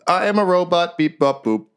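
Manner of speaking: high-pitched, chirpy robot voice; startled little robot. Acted. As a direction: squeak like a robot caught out, beeping to cover it. Game master plays startled little robot.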